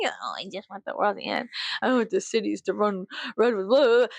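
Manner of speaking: mock them as a whiny baby. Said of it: "you pussy ass baby".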